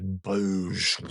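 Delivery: imitated gushing whoosh; spoken explosion of a dam giving way; imitated burst. Tears all came pouring out, imitated burst. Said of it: "All came pouring out".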